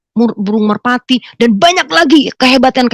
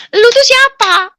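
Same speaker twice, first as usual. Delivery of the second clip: high, loud, drawn-out challenge; retold slow yell; exasperated demand; 13 semitones higher, 5 dB louder, slower than usual. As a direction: stretch the demand out, pitched way up. Demands again, husband overhears.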